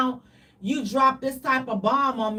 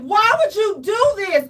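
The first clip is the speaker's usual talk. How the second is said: higher, louder pleading wail; mock distraught cry; 7 semitones higher, 6 dB louder than usual. To the partner revealing bad news, a hammed-up distraught cry. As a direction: wail it like a betrayed lover. Acted distraught reaction in story.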